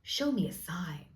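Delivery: slow, put-on American accent. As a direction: draw it out in mock American. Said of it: "doing this in American".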